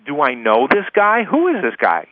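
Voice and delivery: mildly puzzled inner voice; confused wondering. Acted. Woman thinking about the unknown caller, mildly confused. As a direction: wonder to yourself who this caller is. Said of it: "she's confused".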